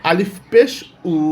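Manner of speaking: আলিফ পেশ rising, then a separate উ; spelling drill. Shown as a demonstration. Teacher showing learners how pesh sounds, spelling drill. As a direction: lift the pitch on পেশ, pause, then sound উ. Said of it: "পেশ থাকলে কিভাবে উচ্চারণ হবে".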